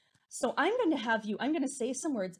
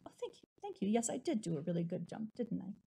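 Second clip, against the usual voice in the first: proud kangaroo; 6 dB quieter, faster than usual. Pretend. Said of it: "It's like saying".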